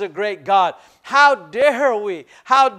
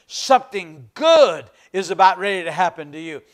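lightly imitated preacher's catchphrase, lower-pitched; low, measured promise, lightly imitated; Oral Roberts; 4 semitones lower than usual. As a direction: lightly put on a famous preacher's low delivery. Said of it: "Oral Roberts used to say this".

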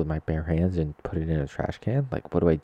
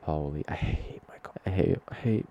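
whispered complaint; whispering. Real, not acted. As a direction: hush it like a secret.

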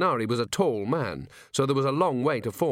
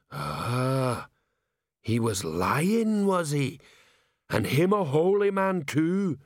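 slow knowing troll, higher; 4 semitones higher, much slower than usual. Acted. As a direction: drag out "lying" with suspicion. Troll reasons aloud.

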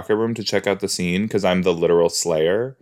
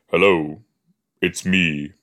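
slightly lowered mock-deep voice; low froggy voice; 3 semitones lower than usual. Player showing off frog-in-throat voice, mock low. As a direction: playfully drop into a low register. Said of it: "my voice gets, like, two octaves lower".

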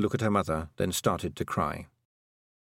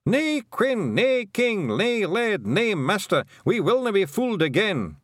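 much higher, loud defiant chant; crowd's cry; 12 semitones higher, 4 dB louder than usual. A narrator's reading. Feagles crying out behind Tiffany, high and defiant. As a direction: shout it like a crowd refusing to be fooled. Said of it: "the cry that went up".

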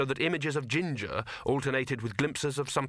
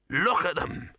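higher-pitched trader's voice with a light sigh; sighing street trader; 6 semitones higher, slower than usual. A narrator's reading. Trader eyeing the crowd, higher sighing complaint. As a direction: lament a missed sale. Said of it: "Cut Me Own Throat sighed".

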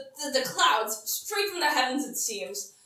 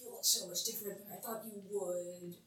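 goblin priest voice; 7 semitones lower, 13 dB quieter than usual. Acted. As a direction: murmur like a bewildered little priest.

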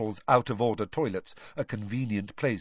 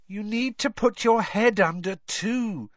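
bossy; 11 semitones higher, 4 dB louder than usual. Acted. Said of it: "enjoying bossing him around".

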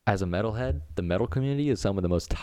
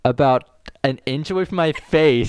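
laughing; 8 semitones higher, 8 dB louder than usual. Real, not acted. Laughing while telling dog story.

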